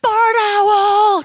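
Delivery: high, loud excited shout of the answer; mock crowd calling out the bird; excited guess. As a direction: blurt out the guess like a thrilled crowd. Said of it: "They're like".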